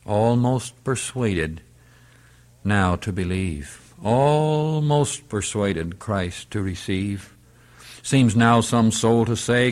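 measured reading of verse with drawn-out words; hymn recitation. Acted. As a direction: recite the hymn solemnly, stretching key words.

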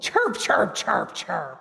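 imitated blue jay scolding chirps; mother's blue jay chirping back at her; bird scolding chirps. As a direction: chirp like an angry little bird. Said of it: "he scolded".

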